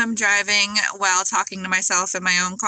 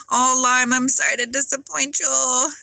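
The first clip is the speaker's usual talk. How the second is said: louder, higher teasing apology; loud playful reply; 5 semitones higher, 5 dB louder than usual. Real, not acted. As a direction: call back to a viewer in mock sorrow. Answers viewer comment.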